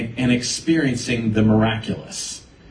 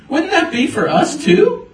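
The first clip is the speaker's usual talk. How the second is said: much higher, louder hopeful question rising at too; eager question; 12 semitones higher, 4 dB louder than usual. Retold or imitated. Fifteen-year-old reading scripture, eager rising question. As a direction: ask it like a teen who just found something. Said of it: "looking at this going".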